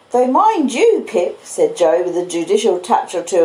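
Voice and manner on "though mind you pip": Joe the blacksmith. Acted. Joe voiced in the story.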